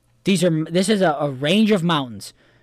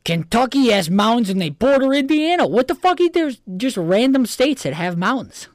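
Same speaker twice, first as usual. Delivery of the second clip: exasperated protest; 7 semitones higher than usual. Real, not acted. Heated protest at friend's logic.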